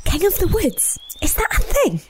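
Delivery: a small rabbit asking her sister; whispered rabbit. Acted. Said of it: "whispered the largest rabbit".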